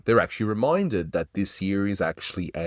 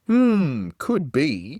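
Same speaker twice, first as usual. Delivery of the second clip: Mister Kitzel catchphrase; 8 semitones higher, 4 dB louder, much slower than usual. Retold or imitated. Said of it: "comes from the Artie Orbach's Mister Kitzel character".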